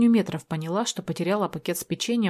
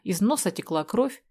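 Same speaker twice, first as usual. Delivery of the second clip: ordinary delivery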